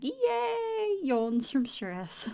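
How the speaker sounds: slow, weepy fake cheer; sarcastic whimpering hooray; mock sad cheer. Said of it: "I was like".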